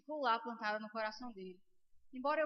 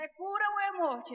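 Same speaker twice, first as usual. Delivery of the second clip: slow, loud, raised question; forceful demand; 5 semitones higher, 6 dB louder, slower than usual. Retold or imitated. Holy Spirit pressing her for an answer, forceful demand. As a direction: demand a choice, stretching the words.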